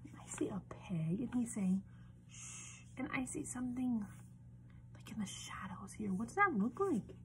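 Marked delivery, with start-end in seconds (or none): 0.1-1.8 whisper. Shown as a demonstration. Whispering about cover. 2.3-6.1 whisper. Shown as a demonstration. Hushed spooky cover description.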